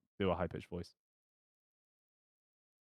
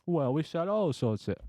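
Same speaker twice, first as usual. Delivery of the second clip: higher, hesitant mock Italian; botched Italian accent; 4 semitones higher than usual. Blacksmith explaining stock, badly faked Italian accent. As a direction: stumble along in a failing Italian accent. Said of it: "I cannot do an Italian accent".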